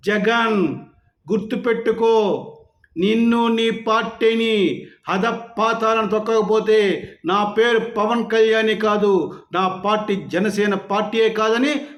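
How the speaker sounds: slow, defiant challenge, each word laid down; mock defiant challenge. Quoting Pavan Kalyan's challenge to Jagan, in a slow defiant mock vow. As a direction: twirl the moustache and dare him, slowly. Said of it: "మీసం మెలేసి చెప్పాడు".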